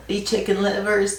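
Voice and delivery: squeaky southern imitation. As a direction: mimic a squeaky West Virginia preacher, half-joking. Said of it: "he had the squeakiest southern".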